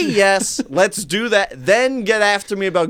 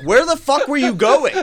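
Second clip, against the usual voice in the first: mock pissed-off sister-in-law, higher and louder; retold angry question; 9 semitones higher, 4 dB louder than usual. Sister-in-law angrily demands where they went, imitated. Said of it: "she was pissed off".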